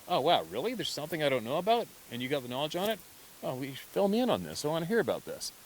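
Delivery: eager amazement. Acted. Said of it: "brain reacts that way of going".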